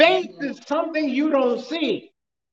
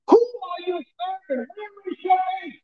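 preaching shout; 5 semitones higher than usual. Acted. Preacher pressing the congregation.

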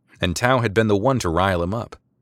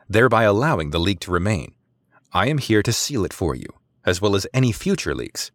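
hungry confidence. Acted. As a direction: press the point, hungry to win. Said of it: "She spoke with a hungry confidence".

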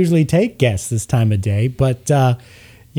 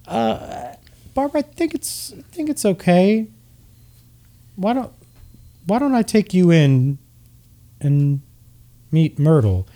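a bewildered elf murmuring to his friend; confused wood elf; 6 semitones higher than usual. Acted. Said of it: "looks at Barbara and says".

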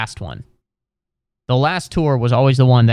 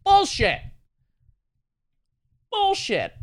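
squeaky indignant; slower than usual. Acted. Calling out the guide.

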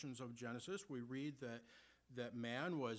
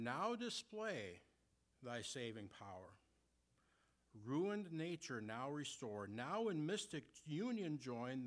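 slow, measured reading of hymn verses; slower than usual. Acted. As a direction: read the old hymn lines with reverence. Reads hymn verses aloud.

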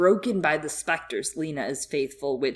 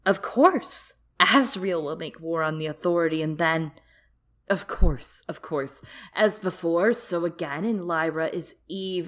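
giddy villainess; 3 dB louder than usual. Acted. Coulter's excited realization.

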